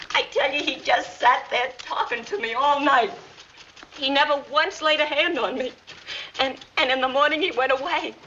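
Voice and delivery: high, tearful pleading; pleading distress. Acted. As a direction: beg them to believe you. Molly pleads her innocence, distressed.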